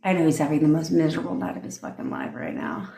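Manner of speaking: amused, gloating inner voice; smug self-talk. Shown as a demonstration. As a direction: say it to yourself with a private laugh ready. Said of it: "it's the way I say it".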